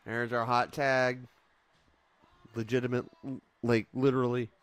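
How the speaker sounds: excited cheer. Real, not acted. Hot tag arrives.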